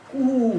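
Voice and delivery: कू said high and loud, a long "koo"; teacher models कू with a clear long u; pronunciation demo. Shown as a demonstration. Teacher shows students the Russian sound, pronunciation demo. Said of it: "अगर कू लिखना है".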